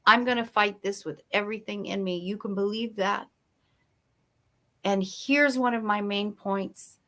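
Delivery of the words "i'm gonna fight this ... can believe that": quiet promise. Retold or imitated. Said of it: "I said".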